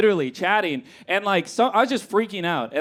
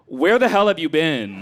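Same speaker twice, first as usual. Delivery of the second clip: mock indignant. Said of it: "that just came out".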